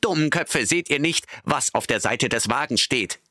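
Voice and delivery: high, desperate scolding; exasperated. A narrator's reading. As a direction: make them see it. Benjamin scolds the animals. (hoch und verzweifelt schimpfend)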